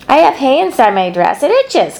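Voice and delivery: high complaining call. A narrator's reading. Fern calling up to Avery about the itchy hay, high. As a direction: whine it across the barn. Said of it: "called Fern".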